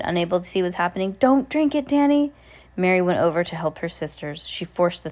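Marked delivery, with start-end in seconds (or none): 1.2-2.3 mild shout. A narrator's reading. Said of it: "Binks shouted".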